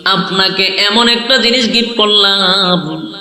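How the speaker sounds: singsong sermon with drawn-out line endings; melodic preaching. Acted. Preacher retells God's gift to the Prophet, melodic preaching. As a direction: intone each phrase and stretch its last word.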